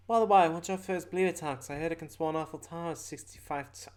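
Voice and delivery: high character voice with a pun coming; Toucher warning. Acted. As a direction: give a casual tip in a game-figure voice.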